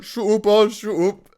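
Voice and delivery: loud, high mock-angry yell; angry brother. Teased brother snapping at younger sibling, exaggerated angry yell. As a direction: imitate an older brother losing his temper. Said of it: "He gets so angry".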